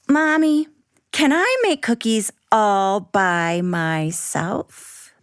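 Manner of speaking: put-on a small girl begging her mom; little girl Abby. Abby asking her busy mom, light child voice.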